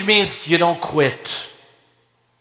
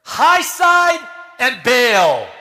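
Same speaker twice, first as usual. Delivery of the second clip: retold command; 6 semitones higher, 3 dB louder, slower than usual. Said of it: "He said two words".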